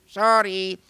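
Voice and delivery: high, loud apologetic sorry; shy Luigi. Retold or imitated. Luigi apologizes to the children, high and shy. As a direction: apologize shyly. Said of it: "I'd say".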